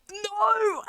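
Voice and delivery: surprised no. Real, not acted. Sudden high no.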